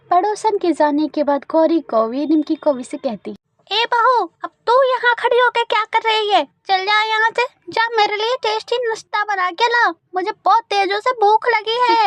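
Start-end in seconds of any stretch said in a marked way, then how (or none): 3.7-12.1 put-on higher, gruff old crow; bossy mother-in-law. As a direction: order the bahu around. (हुक्म चलाती सास)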